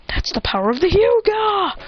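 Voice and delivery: high, climbing mock battle boast; triumphant boast. Boruto boasting in the fight.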